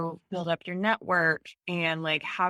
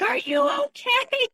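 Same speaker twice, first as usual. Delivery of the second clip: worried husband; 5 dB louder than usual. Retold or imitated. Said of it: "my husband was like".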